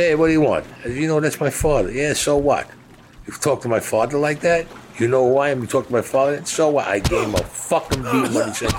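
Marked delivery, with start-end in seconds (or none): 0.0-6.9 retold argument, pitched up and challenging; higher, confrontational back-and-forth; heated confrontation. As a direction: re-enact two men squaring off. Acted confrontation before a fight.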